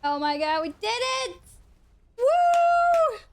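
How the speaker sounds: whooping, laughing with relief; giddy relief. Real, not acted. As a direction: cheer the win, giddy and high. Cheering after clearing the dungeon.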